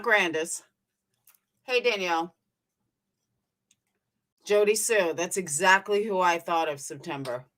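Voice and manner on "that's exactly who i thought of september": talking while munching pretzels; words around a mouthful of pretzels; crunching pretzels. Real, not acted. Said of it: "Sorry, I'm eating pretzels".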